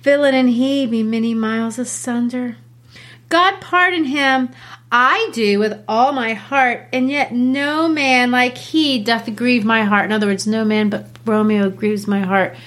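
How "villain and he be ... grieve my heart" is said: aside as Juliet. Acted. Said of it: "she says this to the side".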